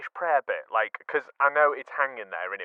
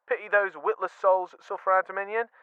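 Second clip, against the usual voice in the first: higher, emphatic quote; 5 semitones higher than usual. Shown as a demonstration. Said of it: "chuck that in".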